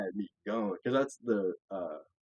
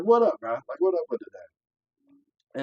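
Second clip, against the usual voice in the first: confrontational shout; 6 semitones higher, 6 dB louder, much slower than usual. Retold or imitated. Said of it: "And I was like".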